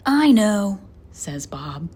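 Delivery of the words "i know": eager answer. A narrator's reading.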